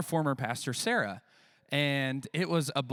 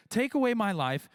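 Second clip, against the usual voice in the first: pitched-up, wailing plea to die; melodramatic Jonah; 8 semitones higher, 3 dB louder than usual. Acted. Jonah begging God to end his life, melodramatic high wail. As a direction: ham up the sulking prophet begging.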